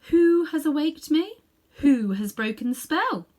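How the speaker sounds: high, loud, slow regal demand; a towering queen demanding who woke her; imperious queen. Acted. Queen demands of the children who woke her, loud and slow. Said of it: "she asked".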